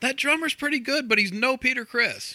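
really loud, very high-pitched, needling tone. Recounting answering a friend at a show to annoy the crowd, retelling saying it really loud. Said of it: "I say this really loud just to piss everybody off".

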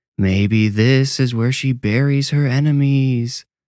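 hammy, cheesy, spooky ghoul voice. Reading a character's remark after a spade is handed over, use a cheesy, ghoulish voice. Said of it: "Ira said in a cheesy, ghoulish voice".

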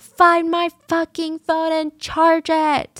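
high, angry, furious scream. Recounting a woman who is mad at a man during a fight, retelling a scream. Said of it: "And she's screaming".

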